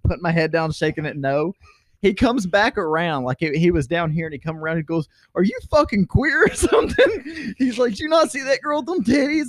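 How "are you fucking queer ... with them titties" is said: mock taunt. Coworker mocking, quoted.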